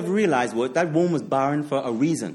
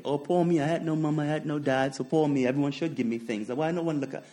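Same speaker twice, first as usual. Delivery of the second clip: whiny self-pity; 4 dB quieter than usual. Retold or imitated. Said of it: "I was like that as a kid".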